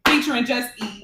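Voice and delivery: tipsy, slightly slurred words; slurred speech. Real, not acted. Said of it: "I'm a little slurred".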